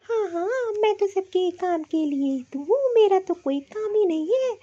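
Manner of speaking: fed-up sarcastic complaint; irritated retort. Acted. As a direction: bite back at the sister-in-law. Priya snaps at Tina.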